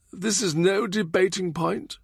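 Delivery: high, pointed retort; sharp retort. Acted.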